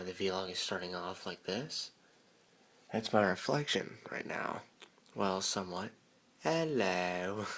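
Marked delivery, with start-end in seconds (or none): 6.4-7.4 jump-scare greeting; startling boo. Pretend. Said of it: "Did I scare you?".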